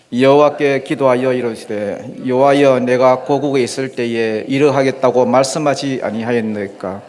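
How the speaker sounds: measured, recited Bible verse; scripture reading aloud. Acted. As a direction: lead a congregation in reading scripture.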